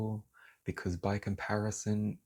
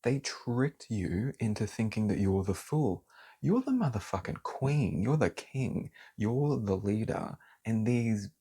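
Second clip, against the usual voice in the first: heated, fired up; 2 semitones higher than usual. Real, not acted. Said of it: "Sorry, I have to".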